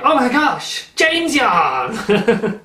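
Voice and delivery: high, loud delighted squeal with a laugh; excited gasp. Retold or imitated. Viewer spotting the yarn, high delighted squeal. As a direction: gush like a fan spotting treasure. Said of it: "You're going".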